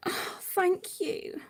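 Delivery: slow, breathy thank you through tears; real tears, barely voiced; whispered tearful thanks. Real, not acted. Thanking friends while crying, slow and whispered. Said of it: "I'm a blubbering mess".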